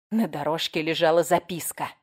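plain reading voice

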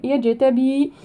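يجتبي with the ج bounced in a short echo; يجتبي with qalqala on the jim. Shown as a demonstration. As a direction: let the ج of يجتبي pop with qalqala. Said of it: "نقلقل الجيم".

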